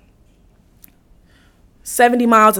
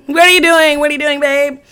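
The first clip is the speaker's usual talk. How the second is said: exasperated questioning; 3 semitones higher than usual. Retold or imitated. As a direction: repeat it insistently, less hysterical. Repeats the question to boyfriend.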